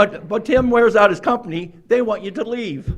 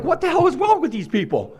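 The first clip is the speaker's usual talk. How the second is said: incredulous laugh; 8 semitones higher than usual. Retold or imitated. Retelling his shock at AA smokers.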